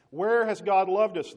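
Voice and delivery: loud, high, slow demand; indignant outcry. Acted. Israel complaining to God, loud high indignant demand. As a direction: shout the grievance at God.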